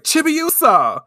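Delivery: high, slow, calling the name; a friend calling after her. Retold or imitated. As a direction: cry after the fleeing friend. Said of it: "Hataru's like".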